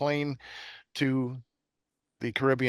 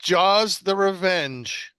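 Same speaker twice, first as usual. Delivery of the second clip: higher, louder and slow, like a trailer voice; mock dramatic announcement; 7 semitones higher, 5 dB louder, much slower than usual. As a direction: announce "Jaws: The Revenge" as a big mock movie title. Announcing the sequel's title.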